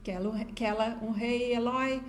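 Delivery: put-on "Quero" softened to a toddler's "quelo"; imitated baby talk. Mother imitating her son's favourite song, "Quero" in baby talk. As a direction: lightly mimic a child who can't say the r in "Quero". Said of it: "Nem falava direito".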